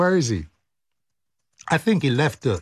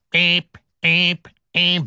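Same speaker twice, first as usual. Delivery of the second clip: short beeps like an alarm; imitated fire alarm; 3 semitones higher, slower than usual. Host sounding the concert's fire alarm, imitated beeps. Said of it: "the fire alarm sounded".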